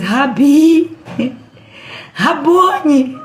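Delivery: Mary realizing it is the risen Jesus, calling out in joy; joyful recognition. Acted. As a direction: call out his name in sudden joy.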